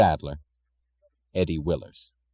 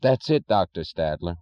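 weary sorrow; 2 semitones lower than usual. Acted. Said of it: "he said wearily".

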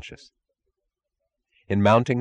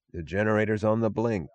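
softer, helpless admission; 4 dB quieter than usual. Acted. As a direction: say it helplessly, at a loss. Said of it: "said the mechanic helplessly".

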